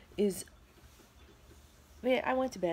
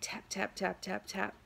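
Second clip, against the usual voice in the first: soft, half-whispered tap tap tap; quiet tapping imitation; imitating tapping; 5 dB quieter than usual. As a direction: mimic a light knock on glass. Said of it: "sounded like somebody was tapping".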